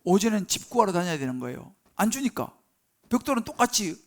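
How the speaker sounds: ordinary talk, nothing marked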